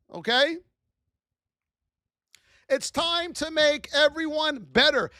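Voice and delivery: normal talking voice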